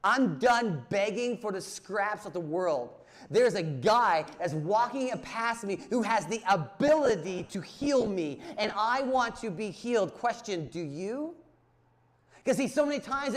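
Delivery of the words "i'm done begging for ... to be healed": louder, raised plea of a blind beggar; loud, resolved beggar's cry; desperate cry. Retold or imitated. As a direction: declare it like a man done begging. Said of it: "And he says".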